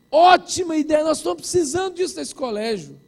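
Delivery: mock gushing approval; imitated enthusiastic approval. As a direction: play staff eagerly welcoming the plan. Retold staff approving with enthusiasm.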